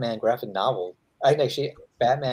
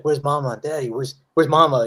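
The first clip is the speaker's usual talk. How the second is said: put-on baby bird voice; 2 semitones higher, 3 dB louder than usual. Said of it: "the baby bird's like".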